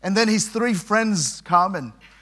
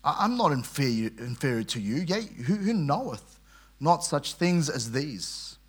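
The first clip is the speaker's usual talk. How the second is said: sarcastic; 4 semitones lower, 5 dB quieter than usual. Retold or imitated. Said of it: "he's thick with sarcasm".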